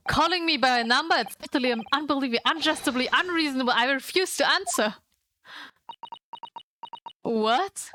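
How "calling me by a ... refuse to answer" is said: indignant tirade. Acted. Prisoner complains about being numbered.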